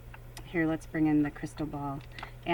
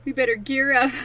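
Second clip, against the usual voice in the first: a rising call to gear up, louder at the end; rally the troops, getting louder; 6 semitones higher, 4 dB louder than usual. Retold or imitated. Rallying herself for a hard time, louder call. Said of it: "I'm like".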